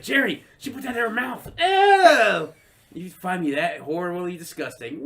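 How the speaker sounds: high mock-disgusted George; hammed-up George with a loud Oh; imitating George. George complaining to Jerry, mock disgust. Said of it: "He's like".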